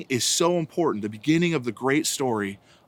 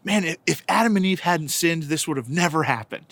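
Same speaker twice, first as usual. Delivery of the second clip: mildly exasperated quote, higher at the start; frustrated child; 4 semitones higher than usual. Retold or imitated. Frustrated son complains after falling over in pajama pants, mock exasperation. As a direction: imitate a kid griping in frustration. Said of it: "so frustrated".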